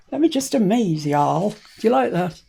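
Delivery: put-on showing off a trick in a jokey Southern accent; mock Southern accent. Crafter teasing viewers in a mock Southern accent. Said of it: "I do, I do love that, that accent".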